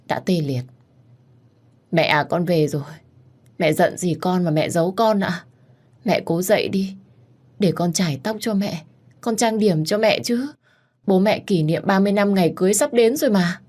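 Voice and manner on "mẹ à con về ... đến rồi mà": raised, pleading voice to a mother; gentle, higher-pitched pleading; pleading daughter. Acted. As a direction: coax a sick mother, pitch lifting.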